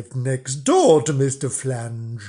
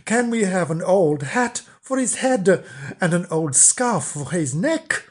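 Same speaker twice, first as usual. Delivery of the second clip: put-on children calling; 4 semitones higher than usual. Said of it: "called the children".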